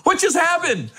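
high-pitched mock bewilderment; baffled. Comic retelling reaction to friend's turnaround, high and baffled.

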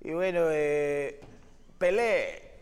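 slow, slurred mock Argentine drunk. Fan asks for a drunk Argentine greeting, slow slurred accent. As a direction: drag it out like a tipsy Argentine fan. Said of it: "salúdame como argentino borracho".

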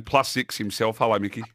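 ordinary talk

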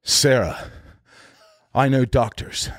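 understated, halting movie-line delivery; Keanu. Retold or imitated. Actor playing an emotional scene on set, understated impression. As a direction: deliver it with a long pause, barely emotional. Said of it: "he's supposed to be really emotional".

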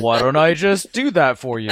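nerdy smug voice, breaking into a laugh; smug nerd, laughing through it; socially awkward nerd voice. Retold or imitated. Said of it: "my socially awkward nerd voice".

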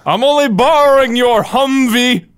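hammy movie star quote; The Rock impression. Quoting The Rock movie line.

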